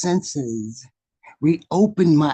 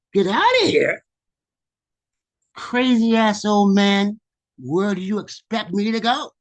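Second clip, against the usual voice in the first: raised, higher-pitched protest; indignant kid; 6 semitones higher, 4 dB louder than usual. Acted. Inner child told by the old man to leave, indignant protest. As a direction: argue back like an affronted child.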